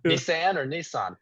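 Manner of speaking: first Nissan as "nih-SAN", second Nissan as "nee-SAHN"; contrasting pronunciations. Retold or imitated. Recalling his friend's search, Nissan as "nih-SAN" then "nee-SAHN". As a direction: say Nissan two ways, short a then broad ah. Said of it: "trying to look up Nissan or Nissan".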